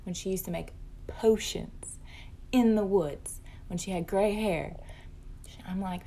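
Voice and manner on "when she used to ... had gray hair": eerie whisper. Retold or imitated. Mom whispering her daughter's creepy past-life claim, eerie whisper. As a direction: hush it right down to a breathy whisper.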